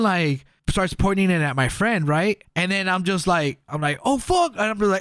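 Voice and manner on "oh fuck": retold alarm. Gun pointed at friend, retold.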